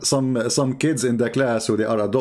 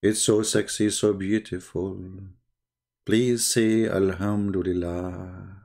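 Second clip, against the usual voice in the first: mock swoon; 5 semitones lower, slower than usual. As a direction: swoon sarcastically, slowly.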